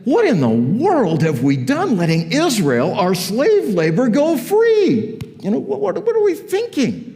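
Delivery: high, exasperated outburst; second-guess it in high-pitched disbelief; aghast rulers. Acted. Pharaoh and his servants regretting letting slaves go, aghast. Acted dismay of Pharaoh's court.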